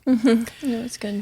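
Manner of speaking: breathy whispered approval. Real, not acted. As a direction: whisper it softly to yourself.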